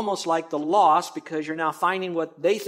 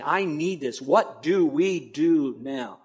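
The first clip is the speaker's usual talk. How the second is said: pleading seeker; much slower than usual. Retold or imitated. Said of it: "by saying".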